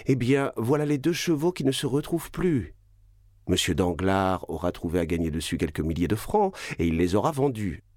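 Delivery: voix plus aiguë, ironie mordante; défi ironique. Acted. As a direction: prendre les messieurs à témoin avec sarcasme. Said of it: "continua la baronne". (la baronne humilie son mari devant ses invités, voix plus aiguë et ironique)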